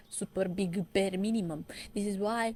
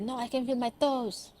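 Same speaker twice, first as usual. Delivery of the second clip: higher, put-on goofy voice; mock dopey guy; 5 semitones higher than usual. Retelling a drama scene to viewers, higher mock voice. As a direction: play the dim guy squeaking it out. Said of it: "the guy's like".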